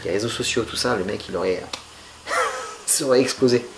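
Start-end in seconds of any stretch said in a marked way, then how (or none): 2.2-2.8 brief breathy snicker; amused little laugh mid-sentence; short chuckle. Real, not acted. Imagining the stunt on social media, short chuckle. Amused at his own hypothetical.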